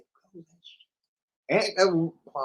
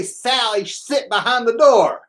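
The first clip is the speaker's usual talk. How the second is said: saying it while holding the tongue; tongue sticking out; 7 semitones higher, 4 dB louder, slower than usual. Shown as a demonstration. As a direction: hold your tongue and talk slowly. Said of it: "I used to hold my tongue and say".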